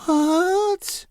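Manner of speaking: very high shocked yelp; can't believe it; Henry's voice shooting up in disbelief; incredulous giant son. Acted.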